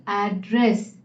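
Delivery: "एड्रेस" with the weight on एड; teacher's demo of "एड्रेस", first syllable strong; stress on first syllable. Shown as a demonstration. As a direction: hit the opening एड of "एड्रेस". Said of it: "मैंने एड पर ज्यादा जोर दिया".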